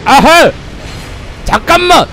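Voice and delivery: very high, loud alarmed cry; startled yelp. Real, not acted. Streamer caught by the invader again, very high startled yelp. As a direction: yelp as the hit lands.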